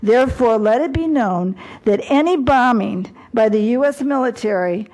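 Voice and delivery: a formal resolution read aloud with weight; formal proclamation. Acted. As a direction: proclaim it like an official decree. Reads out resolution text.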